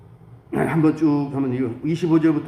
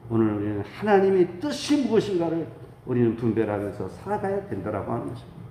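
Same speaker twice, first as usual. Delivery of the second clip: insistent pulpit voice, phrases pushed high and dropped at the close; fervent preaching; 5 semitones higher than usual. Real, not acted. Pastor urging the congregation to follow God's will, fervent preaching. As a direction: exhort the congregation with swelling emphasis.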